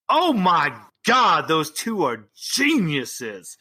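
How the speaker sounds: slow, drawn-out gushing amazement; theatrical, savoring praise; acted delight. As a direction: gush it slowly, stretching the key words. Asmodeus acts delight at pitch.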